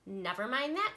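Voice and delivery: a touch of a harsh teacher snapping; snapped. Acted. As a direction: cut the question off. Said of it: "snapped Miss Swamp".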